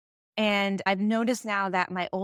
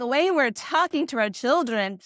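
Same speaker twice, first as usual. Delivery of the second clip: critical parents; 4 semitones higher, 4 dB louder than usual. Retold or imitated. Critics objecting to peaceful parenting, mock indignant complaint. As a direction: voice the critics, stretched out and emphatic. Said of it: "when people critique kind of peaceful parenting".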